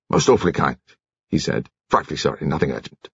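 lightly voiced awkward naval man; flustered drunk commander. A narrator's reading.

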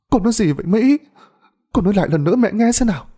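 high, pleading mother's voice, rushed; a frightened mother pressing her daughter; anxious mother. A narrator's reading. Mother questions daughter Mỹ, high and urgent.

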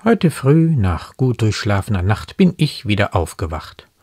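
brisker, firmer verse reading; animated poem quotation; poem quoted in commentary. Acted.

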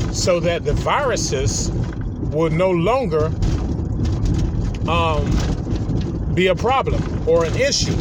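talking while driving over bumps; on a bumpy road. Real, not acted. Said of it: "Sorry on the bumps, I'm on a horrible road right now".

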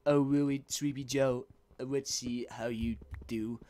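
a hint of a Trump jab; lightly voiced Donald Trump; mild Trump taunt. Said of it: "Donald Trump voice".

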